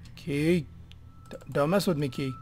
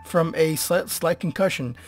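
hammed-up news reader; 6 dB louder than usual. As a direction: proclaim it like an old newsreel. Reads in-game document in voice.

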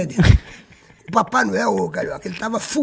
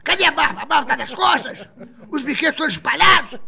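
higher, furious mock tirade; outraged scolding; 5 semitones higher than usual. Marlene scolding the smoking Santa, higher in mock fury. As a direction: tear into him like an outraged boss. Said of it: "quando a Marlene viu aquilo".

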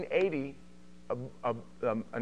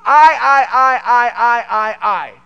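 loud, high repeated cries easing down; Lucifer; 8 semitones higher, 17 dB louder, slower than usual. Acted. Jealous worship leader exalting himself, shouted repetition. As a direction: hammer each word in self-exalting outrage. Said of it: "He said".

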